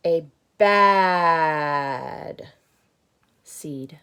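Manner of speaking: loud, then falling to a whisper; bad seed fading. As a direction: say it, then let it sink to a whisper. Repeat fades to a whisper.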